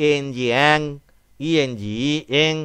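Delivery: ইএনজি ই এং spoken slowly, sound by sound; slow drawn-out. Shown as a demonstration. Teacher sounding out a word for pupils, slow and drawn out. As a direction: stretch out ই and এং slowly for the class. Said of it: "তাহলে কি হবে?".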